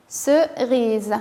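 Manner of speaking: "Cerise" drawn out, first syllable held apart; careful enunciation. Shown as a demonstration. Teacher has children listen for the sound O, careful enunciation. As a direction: say "Cerise" slowly in two parts. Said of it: "faites attention".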